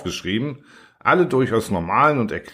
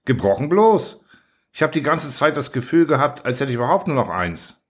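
almost joyful; 4 semitones higher than usual. Acted. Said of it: "sagte er fast freudig".

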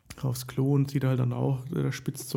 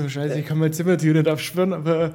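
acted inner voice; 2 semitones higher, 5 dB louder than usual. Acting out his teenage self.

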